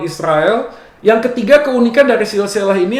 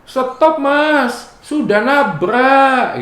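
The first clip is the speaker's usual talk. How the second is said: mock parking attendant; 5 semitones higher, much slower than usual. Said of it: "Jawa itu jadi tukang parkir".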